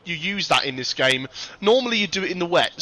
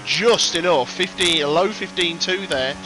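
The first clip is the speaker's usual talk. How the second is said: excited call. Acted. Commentator calling the pole lap finish, excited. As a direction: sell the tight finish.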